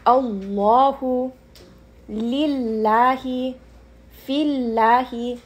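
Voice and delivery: slow "अल्लाहु" heavy, then "लिल्लाही", "फिल्लाही" light; heavy then light lam. Shown as a demonstration. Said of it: "कसरा है, उसको light पढ़ें". ("अल्लाहु" भारी, फिर "लिल्लाही" "फिल्लाही" हल्के)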